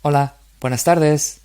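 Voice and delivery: model reading. Shown as a demonstration. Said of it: "I read and you repeat".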